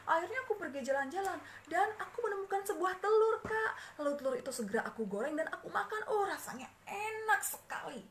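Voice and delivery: bubbling over with glee about the egg; happy excited telling. Acted. Little sister tells older sibling about the egg, happily excited. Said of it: "Dengan perasaan sangat senang".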